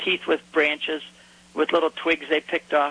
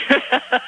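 loud, high laugh; burst of laughter; 10 semitones higher, 6 dB louder than usual. Real, not acted. Host's Bible fishing joke lands, real laugh.

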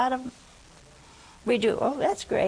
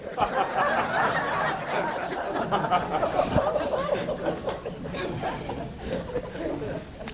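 long high laugh; 4 dB quieter than usual. Real, not acted. Laughing at his own joke.

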